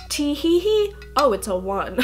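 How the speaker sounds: lightly voiced giggly player; a hammed-up tee hee then a sigh over the roll; mock giggle. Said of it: "So you can be like".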